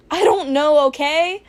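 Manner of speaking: loud, defensive retort; defensive snap. Acted.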